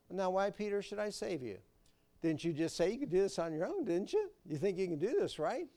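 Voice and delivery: a sarcastic Lord chiding Peter; teasing scold. Acted. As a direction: needle him with sarcastic questions.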